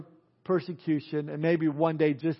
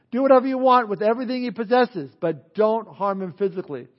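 raised divine voice; 4 semitones higher, 3 dB louder than usual. Acted. God grants Satan permission.

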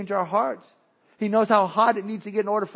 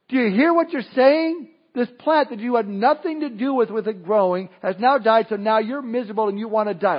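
loud, higher, incredulous scolding; exasperated shout at Jonah; 3 semitones higher, 4 dB louder than usual. Pretend. Preacher shouting at pouting Jonah, loud exasperation. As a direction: shake him awake with your voice. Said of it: "you want to shout to Jonah".

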